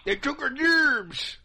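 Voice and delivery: slow, high hick drawl; redneck voice. Pretend. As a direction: say it like a yokel from the cartoon. South Park quote, slow high.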